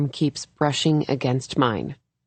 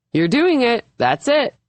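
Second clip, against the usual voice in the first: much higher, loud cheering; excited encouragement; 9 semitones higher, 3 dB louder than usual. A narrator's reading. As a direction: cheer her success, high and loud.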